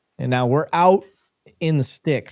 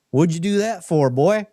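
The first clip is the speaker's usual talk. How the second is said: lightly voiced rancher, pitched up; a touch of a scolding rancher, higher; mock rancher; 5 semitones higher than usual. Rancher asking cop why he stepped in anthill, mock scolding.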